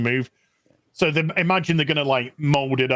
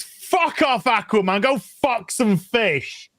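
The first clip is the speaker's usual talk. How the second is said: mock Peacemaker taunt; 8 semitones higher, slower than usual. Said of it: "And then he goes".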